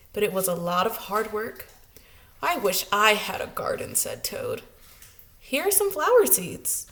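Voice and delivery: put-on lively read-aloud storytelling for children; story narration. A narrator's reading. Teacher reading a picture book to her class, lively storytelling.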